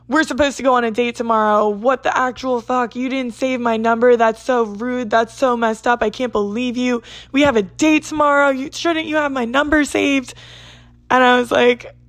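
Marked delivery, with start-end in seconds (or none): 0.1-10.3 indignant rant. Retold or imitated. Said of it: "And the person goes".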